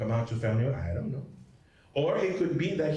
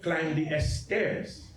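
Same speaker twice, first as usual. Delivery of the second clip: very slow, blunt "Climb the stairs"; imitating an elder's curt order; blunt command; much slower than usual. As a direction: give it as a flat order, slowly. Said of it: "they said".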